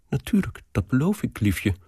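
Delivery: put-on old nanny soothing her girl; tender old nanny. Nanny promising, pitch jump. (geruststellende oude njanja)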